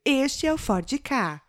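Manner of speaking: lightly voiced car ad announcer, slow; locutora de propaganda. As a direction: stretch it out like a commercial tag. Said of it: "aquela que faz a propaganda". (imitando locutora de propaganda, devagar)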